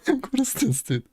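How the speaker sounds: high, breaking laugh on the words; barely getting it out for laughing; laughing disbelief. Real, not acted. Streamer watching a meme video, laughing hard.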